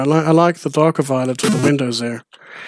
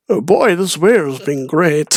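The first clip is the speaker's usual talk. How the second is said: imitating Steve; 3 semitones higher, slower than usual. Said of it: "He says".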